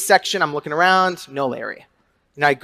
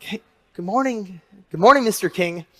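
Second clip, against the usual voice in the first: gentle greeting; 2 semitones higher, 3 dB quieter than usual. Retold or imitated. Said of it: "be a bit more gentle today".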